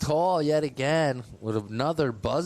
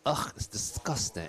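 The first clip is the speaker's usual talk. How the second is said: put-on British accent; 4 dB quieter than usual. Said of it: "just be British for now on".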